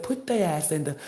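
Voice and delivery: loud, punchy mock command; hammed-up loud proclamation; switched-up loud voice. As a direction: bark it out like a decree. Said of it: "I even switched my voice up".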